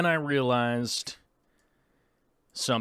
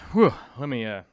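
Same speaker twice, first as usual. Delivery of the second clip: out of breath from running around; breathless, catching his breath; running out of air; 4 dB louder, faster than usual. Real, not acted. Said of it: "I'm running out of breath here".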